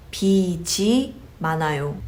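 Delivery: 빚이 said with the final consonant rolled over into a "ji"; correct linking. Shown as a demonstration. Teacher shows learners how to say you have debt, correct linking. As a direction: link 빚이 smoothly as "bi-ji". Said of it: "therefore you just say".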